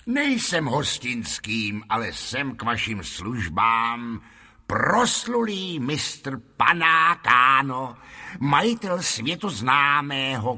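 lightly voiced fairground showman, stretching grand titles; wheedling showman. Lotrando pitches his theatre to a lord, lightly voiced showman. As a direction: present the troupe with a touch of ceremony.

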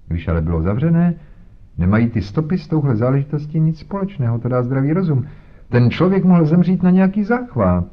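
very high, fast pompous police voice; blustering inspector. Acted. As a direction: brush off theory with bluster. Inspector lectures with self-importance.

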